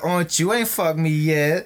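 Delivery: lightly put-on sassy character voice; Manny Pacquiao. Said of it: "then Manny Pacquiao comes out".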